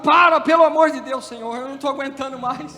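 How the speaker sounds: sudden loud plea for it to stop; pleading. Acted. Believer begs God to stop breaking them, pleading. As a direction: cry out for mercy, then drop off. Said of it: "Quando o Senhor começa a quebrar".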